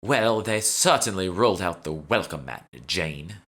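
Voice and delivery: haughty, exaggerated British accent; heavy British accent. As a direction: lay the British accent on thick. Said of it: "upped her British accent to another level".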